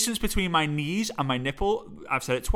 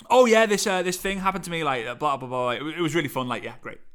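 bored storytelling. Shown as a demonstration. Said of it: "don't just do a story and be like".

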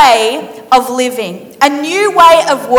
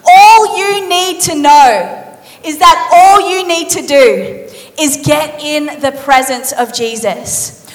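weighty Jesus; slower than usual. Acted. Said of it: "looks in her eyes and he says".

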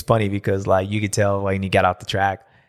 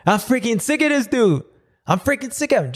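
much higher whiny grumble; mock fed-up brother; 13 semitones higher than usual. Beaten brother griping about little brother, high whiny mock. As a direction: whine it like a sore loser. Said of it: "Hunter's like".

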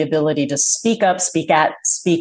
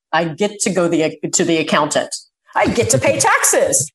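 mock cheerful gratitude. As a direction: sell dull chores as a treat, half-joking. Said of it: "I will say, like".

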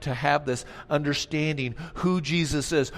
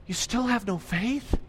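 eye-rolling Jesus; 6 semitones higher than usual. Acted. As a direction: sigh it out, then build to a challenge. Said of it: "I think he rolled his eyes".

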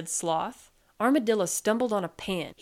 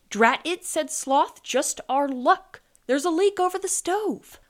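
higher, louder exclamation of irritation; annoyed; 8 semitones higher, 5 dB louder than usual. A narrator's reading. Sloth finds a leak over the stove, annoyed. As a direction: curse your luck mildly.

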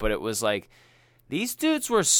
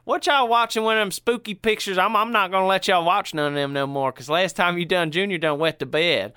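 higher, louder scolding Southern daddy; 6 semitones higher, 3 dB louder than usual. Acted. Southern fella quoting daddy scolding the kids, higher and louder Southern voice. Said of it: "I like to do the Southern fella".

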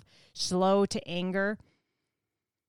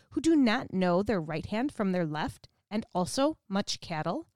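even, measured Bible reading voice; scripture reading. Acted. Teacher reading Jonah four aloud to the class, measured scripture reading. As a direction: read the passage steadily to the class.

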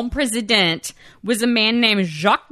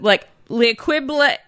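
Oklahoma accent. Shown as a demonstration. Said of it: "here's my Oklahoma accent".

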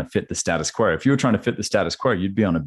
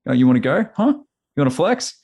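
higher, mock tough-guy taunt picking a fight; mock macho challenge; 8 semitones higher than usual. Young leader challenged by older men, mock macho taunt. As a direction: puff up and dare him, hammed-up. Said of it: "I wanna be like".

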